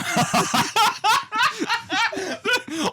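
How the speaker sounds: very high, drawn-out laughing fit; real high squealing laugh; helpless laughter. Real, not acted. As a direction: crack up completely. Cracks up at the fart joke.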